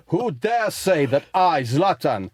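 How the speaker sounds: mock-haughty footballer declaration; Zlatan. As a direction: demand it as an imperious foreign star. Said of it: "Zlatan kicks open the door".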